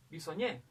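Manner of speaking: "Bisoñé" with its weight on ÑÉ; stress on last syllable. Shown as a demonstration. Teacher finding the strongest syllable, stress on ÑÉ in "Bisoñé". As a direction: lean on the final ÑÉ of "Bisoñé". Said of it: "la mayor fuerza va a ser en Y".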